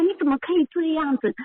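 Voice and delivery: 你怎么可以这样子 pitched high with stress on 以, then a falling end; angry protest. Retold or imitated. Daughter retells scolding mother over the wheelchair, high indignant 以 and falling end. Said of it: "我就会很生气".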